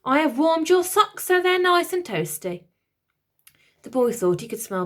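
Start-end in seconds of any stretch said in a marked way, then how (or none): 0.0-2.6 high, louder chirpy robot; eager helpful robot; a cheery machine servant. Acted. Robot octopus speaks.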